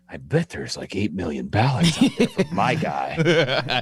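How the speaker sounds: mock Trump supporter. Mocking a Trump supporter's belief.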